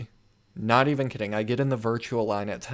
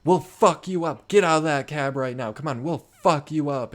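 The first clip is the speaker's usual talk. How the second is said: imitated drunken threats; 4 semitones higher, 3 dB louder than usual. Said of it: "like, hammered, and they're like".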